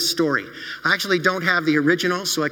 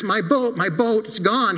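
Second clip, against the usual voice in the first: put-on higher, a boy fighting back tears; holding back tears; 4 semitones higher, slower than usual. Billy running home to his parents, holding back tears. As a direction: near tears but holding on. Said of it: "He tried to hold back the tears".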